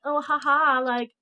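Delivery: retold gloating, sing-song la-la teasing; mock taunting. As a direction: imitate a sister rubbing it in. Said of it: "basically taunting her".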